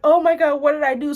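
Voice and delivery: high, loud fake distress; mocking a contestant's overblown wail. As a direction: ham up her dramatic dismay. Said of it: "Huda was like".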